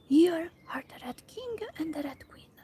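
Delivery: hushed whisper, afraid to startle. Acted. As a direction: whisper it so they can't hear. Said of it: "in a whisper, for fear of frightening them".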